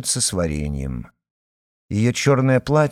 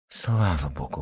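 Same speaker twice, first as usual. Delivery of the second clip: softer, lower breath of relief; exhaled relief; 6 semitones lower, 6 dB quieter than usual. A narrator's reading. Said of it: "выдохнула Татьяна".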